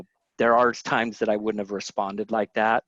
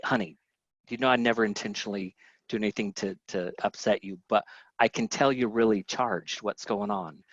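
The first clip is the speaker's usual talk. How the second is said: softer, soothing husband voice; gentle reassurance; 2 semitones lower, 4 dB quieter than usual. Retold or imitated. Husband softly reassures his stressed wife, gentle and quiet. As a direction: ease her down kindly.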